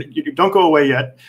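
ordinary talk

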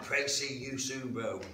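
high, loud, drawn-out call across the street; imitating a shout. Simon shouting his farewell prayer down the street, loud call. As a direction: belt it out like calling after someone walking away. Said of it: "he shouted his prayer, like, as loud as he could".

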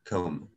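"Coma" with a lengthened English first vowel; longer English pronunciation. Shown as a demonstration. Teacher contrasts it with the Spanish word, longer English pronunciation. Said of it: "la pronunciación es un poquito más larga".

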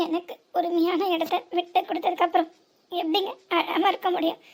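understated tearful reproach; hurt, holding back tears. Acted. Wife asks husband how she can stop crying, tearful. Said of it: "ஆனா நீ அழாத".

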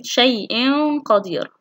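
held nasal hum joining شيء to قدير; tanween ikhfa. Shown as a demonstration. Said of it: "في حالة التنوين". (إخفاء التنوين بغنّة في شيء قدير)

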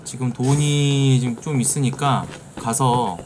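ordinary delivery

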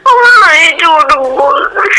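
crying. Real, not acted. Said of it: "બસ હવે રોવાનું બંધ કર યાર".

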